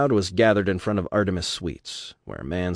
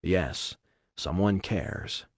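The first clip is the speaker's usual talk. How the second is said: quiet inner echo; 6 dB quieter, much slower than usual. Acted. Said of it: "the words loitered in her mind".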